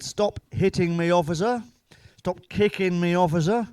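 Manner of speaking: hammed-up cries at the police officer; mock pleading shout. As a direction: yell for help as if being beaten. Pleading while police beat him.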